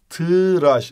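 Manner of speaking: tıraş with the ı between t and r; Turkish pronunciation. Shown as a demonstration. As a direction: say tıraş, ti-raş with ı. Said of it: "I araya giriyor". (Türkçe: tıraş, araya ı)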